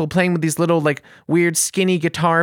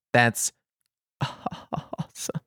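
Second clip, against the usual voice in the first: slow, bitter mock chuckle; sarcastic laugh; 2 semitones lower, 6 dB quieter, much slower than usual. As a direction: force out a hollow laugh through the praise. Sarcastic reply to useless help.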